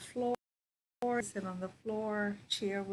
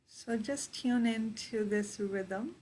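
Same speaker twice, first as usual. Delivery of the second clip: guided meditation. Real, not acted. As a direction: guide them into their breath, unhurried.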